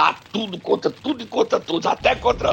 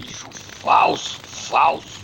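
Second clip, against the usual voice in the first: whispered jab; 3 semitones lower, slower than usual. Pretend. Teasing the cohost about his party.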